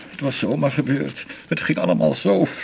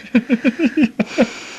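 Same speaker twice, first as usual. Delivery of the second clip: pained laugh; 9 semitones higher, 3 dB louder than usual. Acted. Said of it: "niet lachen".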